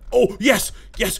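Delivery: loud, high burst of joy; excited yell. Real, not acted. Player celebrating a catch, loud excited yell. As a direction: shout with sudden relief.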